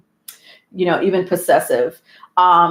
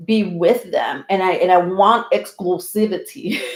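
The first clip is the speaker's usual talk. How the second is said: mock earnest plea. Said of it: "I don't know why I gotta say it like that".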